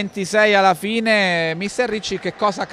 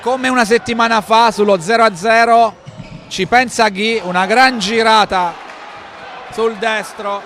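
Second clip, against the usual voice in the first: excited commentary; 3 semitones higher, 6 dB louder than usual. Real, not acted. Live goal replay call.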